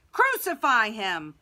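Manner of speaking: loud, drawn-out demand; thundering shout. A narrator's reading. Huge crowd answers Pilate, thundering. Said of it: "the huge crowd thundered".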